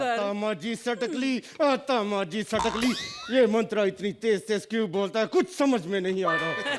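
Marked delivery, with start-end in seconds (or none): 0.0-2.9 a Singham-style roar that builds on the repeat; shouted catchphrase. Acted. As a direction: hero yells catchphrase at the comic, building.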